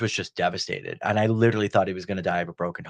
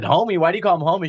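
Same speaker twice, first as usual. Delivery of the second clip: high, louder incredulous query; retold puzzlement, pitched up; baffled question; 7 semitones higher, 5 dB louder, faster than usual. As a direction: ask it like the name makes no sense. Retold baffled question about a name.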